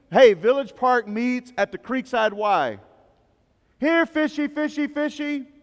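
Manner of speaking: high, loud, slow sing-song invitation; preacher mocking the church's passive come-to-us call; mocking lazy church. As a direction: parody a lazy church calling people in. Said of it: "the mentality that most of us have".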